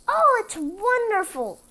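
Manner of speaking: high, loud put-on girl voice; delighted exclaim. Cinderella sees the finished dress, high and delighted. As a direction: gush with joy. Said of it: "Cinderella exclaimed".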